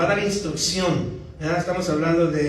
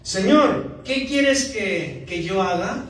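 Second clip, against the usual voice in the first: trembling, fearful; 2 semitones higher, slower than usual. Retold or imitated. Paul, struck by the Lord, asks fearfully. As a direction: plead slowly like a trembling convert. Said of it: "Temblando y temeroso dijo".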